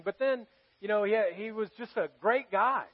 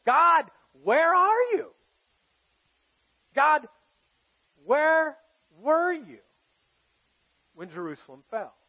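high, loud, slow cry to God, dropping to a hush at the end; anguished plea; 6 semitones higher, 7 dB louder, slower than usual. Acted. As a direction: call out to an absent God. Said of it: "he's saying".

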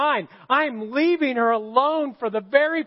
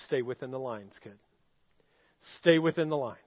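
put-on softer, murmured encouragement to a child; hushed coaching; 9 semitones lower, 7 dB quieter, faster than usual. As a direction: quietly urge her to stay in the lines. Mother coaching daughter while coloring.

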